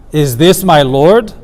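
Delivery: slow "Is this my Lord?" rising on "Lord"; slow rhetorical rise on "Lord"; disapproving question. Shown as a demonstration. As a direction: ask it to show disapproval, not to get an answer. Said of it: "As a disapproval".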